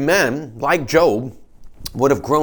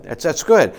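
louder, firm approval; emphatic affirmation; 3 semitones higher, 4 dB louder than usual. Real, not acted. Pastor to congregation, repeating it loudly. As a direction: punch it out to the room.

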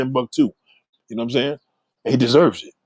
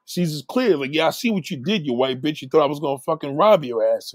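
mock angry call-out; 2 semitones higher than usual. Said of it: "he like".

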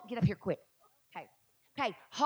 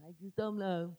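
mocking a doubter; 3 semitones lower than usual.

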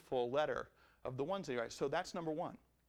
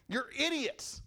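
mock outburst; 8 semitones higher, slower than usual. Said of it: "He boils over to the point of just going".

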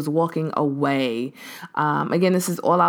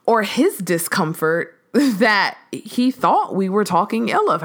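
retold disbelief; 3 semitones higher than usual. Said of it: "I was just like".

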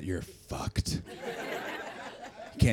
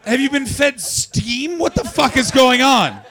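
high-pitched, drawn-out shouts; incredulous outrage; 12 semitones higher, 5 dB louder than usual. Acted. Comic to young-looking cousins about what they're fed, incredulous. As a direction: yell in comic disbelief, voice pushed way up.

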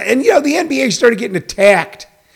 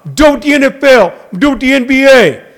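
mocking critics; 6 semitones higher, 4 dB louder than usual. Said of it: "those people constantly going".

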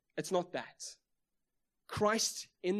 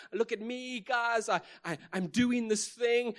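high-pitched imitation of a braggart; mock show-off; 6 semitones higher than usual. Preacher mimicking someone drawing attention to himself, mock boasting. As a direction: playfully clamour for everyone's attention.

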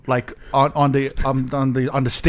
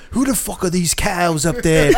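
mock British club owner, pitched up; British accent; 3 semitones higher than usual. British club owner sees girls dancing on the banquettes, British accent. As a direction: put on an indignant British accent, half-laughing. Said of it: "You have to do the accent".

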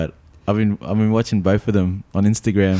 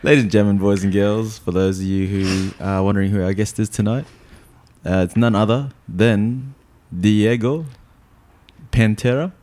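grand entrance announcement. Acted. Host introduces tonight's guest.

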